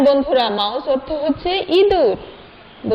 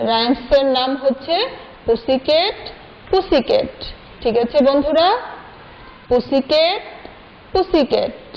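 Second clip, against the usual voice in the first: put-on reciting rhyme to children; much slower than usual. Shown as a demonstration. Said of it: "আবার দেখো পড়িয়ে দিচ্ছি".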